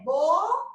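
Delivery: "bolo" broken in two with a pause between syllables; split into syllables. Shown as a demonstration. Teacher showing children the separated syllables, "bolo" split in two. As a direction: say "bolo" slowly, one syllable at a time. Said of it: "a sílaba que falou aí pra mim que separou".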